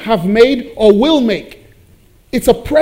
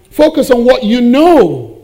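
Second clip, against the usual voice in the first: loud urging; 5 semitones higher, 6 dB louder than usual. Real, not acted. Preacher urging congregation.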